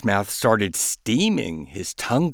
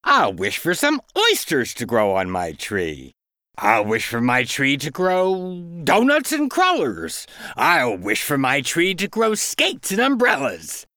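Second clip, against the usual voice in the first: higher eager duck voice, building; a lightly voiced duck getting carried away; greedy duck, eager; 5 semitones higher than usual. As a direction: reel off the wishes like a greedy duck. Duck voice in story.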